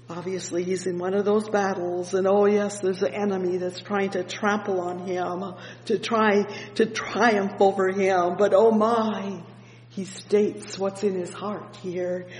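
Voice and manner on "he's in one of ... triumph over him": normal talking voice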